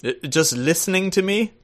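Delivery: put-on posh-phrased British accent. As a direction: play the very British guest, drawing out the formal phrasing. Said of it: "it's such a good accent".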